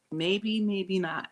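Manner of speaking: maybe, maybe not stretched slow and soft; drawn-out musing. Real, not acted. Musing to viewers, slow and drawn out. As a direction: let it trail slowly, unsure.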